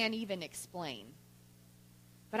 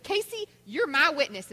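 raised, louder declaration; mock indignation; 6 semitones higher, 7 dB louder than usual. Fed-up mother to laughing neighbor, mock indignant and loud. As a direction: call the neighbor to witness, imitating outrage.

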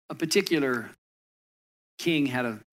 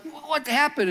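high, stunned cry of disbelief; a king staring at his stump, much higher; shocked king; 11 semitones higher than usual. Retold or imitated. King to his servant after the hunting accident, high shocked gasp.

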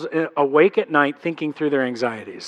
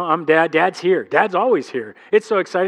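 ordinary delivery

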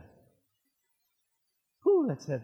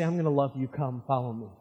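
gentle Jesus; 6 semitones lower than usual. Acted. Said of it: "I'm gonna go to you and say".

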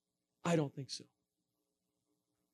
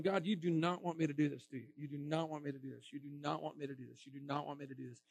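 softening to a low, hushed plea; pleading murmur; 4 semitones lower, 7 dB quieter than usual. Retold or imitated. Preacher muttering his plea to God at the monument, hushed. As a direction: beg God under your breath, fading away.

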